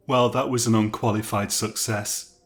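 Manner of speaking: sarcastic. Acted. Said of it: "said Archie sarcastically".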